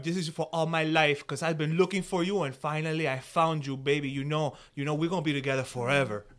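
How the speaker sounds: lightly voiced smooth caller; caller character. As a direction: croon a dedication to your girl. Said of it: "in character".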